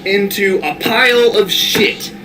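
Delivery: slow hammed-up disgusted rant; James Rolfe rant. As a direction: drag out the disgust. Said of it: "channeling his inner James Rolfe".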